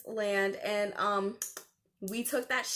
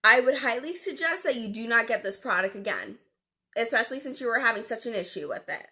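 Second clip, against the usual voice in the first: snippy tone. Retold or imitated. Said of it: "I didn't say that in that tone of voice".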